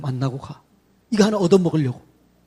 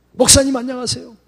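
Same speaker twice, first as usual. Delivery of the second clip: bright greeting; 4 semitones higher than usual. Shown as a demonstration. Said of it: "막 이렇게 하는 거죠".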